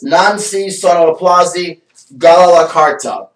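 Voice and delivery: mock Italian accent, read off the card like a showman; fake Italian. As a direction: ham it up as a pretend Italian speaker. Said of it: "I like pulling off the fake Italian".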